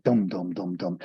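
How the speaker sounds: low "dum, dum" mimicking soundtrack music; imitated screen music. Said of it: "there's some sort of mystical flute music".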